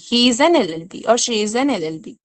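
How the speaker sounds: each an spelled out slowly; an stressed before এলএলবি; slow model sentence. Shown as a demonstration. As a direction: read the example deliberately for students. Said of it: "So, an এলএলবি".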